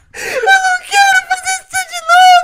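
very high, panicked sobbing and crying. Streamer right after thinking the team would lose, crying in panic. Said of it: "Eu tô chorando!".

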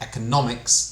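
"economics" stressed on third syllable "nom". Ukrainian-language english stress lesson: economics stressed on third syllable. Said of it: "economics це має бути на третьому".

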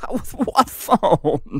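quip said through laughter. A father replies to his child's demand to call the cops, laughing. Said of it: "Laughed my dad".

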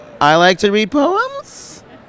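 put-on creaky, drawn-out Valley girl uptalk with vocal fry. Speaker attempts the Valley-style voice being discussed: Valley girl vocal fry. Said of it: "the vocal fry?".

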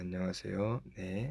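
very low, quiet, hushed, pressed-down, deflated voice. Showing how some people who talk for work lower their voice, pressed-down low voice. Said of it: "목소리를 막 이렇게 좀 깔아가지고 ... 텐션도 좀 다운되시고 ... 이런 식으로 좀 소리의 포인트가 좀 아래로 내려가".

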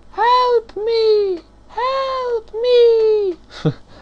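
very high, very slow, pleading monkey voice. Showing a toy monkey in a cage, voicing the trapped monkey, monkey voice. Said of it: "*Monkey's Voice*".

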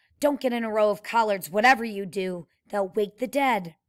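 ordinary delivery, nothing marked

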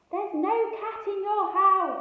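very loud, high bellowing shout. Narrating a story, Moonface's reply to the man: shouted. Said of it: "shouted Moonface".

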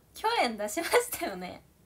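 loud, curt, snappy voice, clearly irritated. Acting out a reply in a Japanese skit, slightly snappy, irritated tone. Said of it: "キレ気味。".

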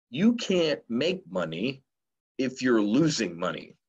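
very slow, deliberate, drawn out, every word spaced apart. Sharing a favorite saying the speaker always has to say slowly: said very slowly. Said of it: "I have to say it slowly".

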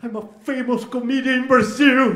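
tearful, sobbing speech, high and drawn out. Retelling being asked who they were by a man, imitating crying while talking. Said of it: "Chorando assim".

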